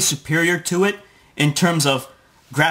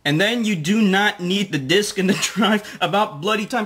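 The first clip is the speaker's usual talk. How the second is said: mock British accent; 4 semitones higher than usual. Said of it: "why the fuck are you talking like a British guy".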